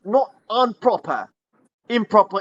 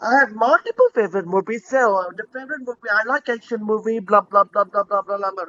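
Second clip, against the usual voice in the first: student Kumari answering; 3 semitones higher than usual. Acted. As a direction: rattle off a mock student answer. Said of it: "like this, right?".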